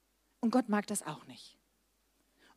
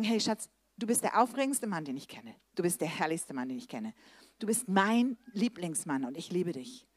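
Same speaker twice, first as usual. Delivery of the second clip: tender praise; 4 semitones lower than usual. Retold or imitated. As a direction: coo it to your husband sweetly. Wife sweetly praising husband.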